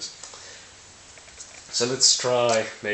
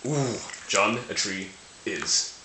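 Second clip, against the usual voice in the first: playful ooh, then slowly falling to the last word; mock suspense; 4 dB quieter, slower than usual. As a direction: savour the reveal with pauses. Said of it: "suspense is killing me".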